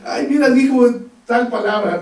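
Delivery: high, laughing mock delight at a child's swearing; laughing proud parents. Preacher imitates parents laughing at a child's first swear word, giggling. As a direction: gush with a giggle like a tickled parent. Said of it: "Les da gusto y se ríen".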